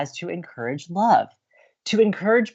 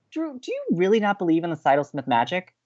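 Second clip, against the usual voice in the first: normal talking voice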